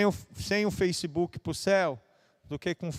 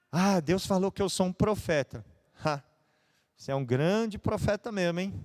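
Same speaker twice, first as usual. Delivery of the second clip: mock praise dripping irony; sarcastic; 2 semitones higher than usual. Shown as a demonstration. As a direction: say it as a sneer of fake agreement. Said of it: "com ironia, com sarcasmo".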